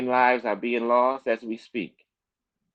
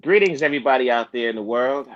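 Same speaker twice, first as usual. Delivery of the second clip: calling out; 7 dB louder than usual. Real, not acted. Calling out to world audience.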